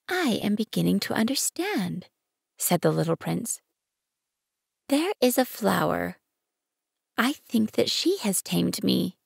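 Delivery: little prince. Acted. Prince voice held over several lines.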